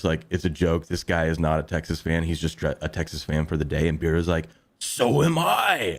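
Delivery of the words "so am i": playful retort. Retold or imitated. Beardo's deadpan retort retold.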